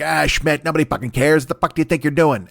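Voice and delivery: loosely impersonated angry inner critic; J. Jonah Jameson. Acted. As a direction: berate him like an irritable newspaper boss. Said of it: "sound like my buddy Jimmy O".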